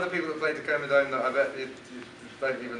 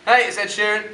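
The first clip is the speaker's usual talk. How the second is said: station ID; 6 semitones higher, 12 dB louder than usual. Shown as a demonstration. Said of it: "with the, with your".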